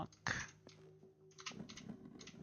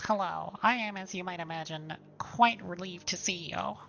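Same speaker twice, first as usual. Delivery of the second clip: nerd voice; 2 semitones higher, 5 dB louder than usual. Acted. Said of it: "Am I giving him a nerd voice".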